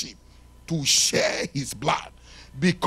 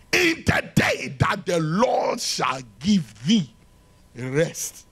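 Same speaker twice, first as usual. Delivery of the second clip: preaching shout; slower than usual. Acted. Preacher proclaiming the scripture.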